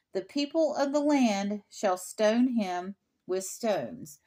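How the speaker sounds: formal, measured Bible reading; scripture reading. Real, not acted. Reads scripture aloud.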